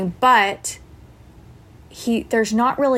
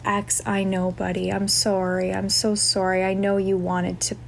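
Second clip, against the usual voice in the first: sympathetic apology. Retold or imitated. Consoling a crying boy over a missed park, gently sympathetic. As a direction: acknowledge his upset gently, without taking blame. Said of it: "that was the, more the, the way that I was saying it".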